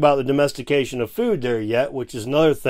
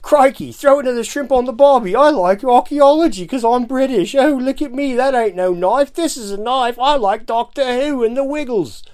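high, loud hammed-up Aussie accent; mock Australian accent; 10 semitones higher, 6 dB louder than usual. Mocking his co-host, an over-the-top Australian accent. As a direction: ham up a cartoon Australian, much higher and louder. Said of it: "it's okay to make fun of accents".

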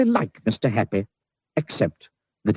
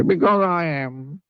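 glum reply; 9 semitones higher, slower than usual. Acted. Mister Miserable answers.

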